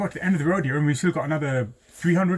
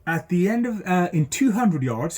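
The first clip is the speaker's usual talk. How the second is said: sat nav voice; 3 semitones higher than usual. Retold or imitated. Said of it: "the first instruction has been given by the sat nav".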